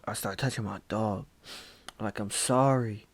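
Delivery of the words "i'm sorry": tearful apology. Retold or imitated. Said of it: "My tears is hitting him".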